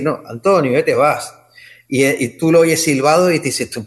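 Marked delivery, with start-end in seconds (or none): 0.3-1.3 imitating an El Hierro accent, admittedly not quite right; a light attempt at the El Hierro islander accent on "Antonio, ya te vas"; a hint of the Hierro accent, falling at the end; herreño accent. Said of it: "cuando habla con su acento lo voy a imitar, pero no me va a salir".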